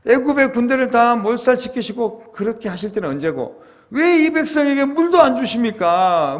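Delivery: high, loud protest to heaven; resentful complaint. Acted. Moses imagined blaming God over bitter water, loud resentful complaint. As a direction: cry out in aggrieved, accusing questions. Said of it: "이렇게 막 하나님을 원망하면".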